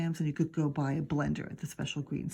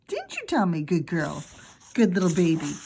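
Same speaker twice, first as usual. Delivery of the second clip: put-on coaxing child voice; 5 dB louder than usual. Fudge coaxing the baby.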